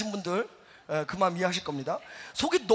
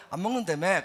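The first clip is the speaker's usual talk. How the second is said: gentle; 3 semitones lower than usual. Shown as a demonstration. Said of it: "이랬어야 되는데".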